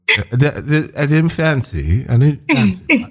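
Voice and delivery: high, halting mock British accent. Shown as a demonstration. American still working on it for a British host, shaky-attempt British accent. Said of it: "I'm working on it".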